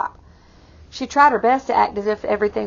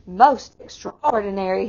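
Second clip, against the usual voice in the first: mild exclaim. Acted. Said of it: "he exclaimed".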